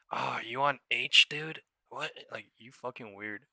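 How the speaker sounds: loud, slow, sneering read of the message; mocking chat quote. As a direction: ham up the dumb question, drawn out. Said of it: "people aren't saying".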